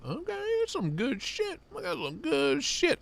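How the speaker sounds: excited. Real, not acted. Excited over a knife.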